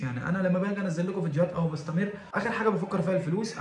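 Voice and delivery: laughing it off while swearing it's not about money. Real, not acted. Laughing as he tells viewers money is last on his mind.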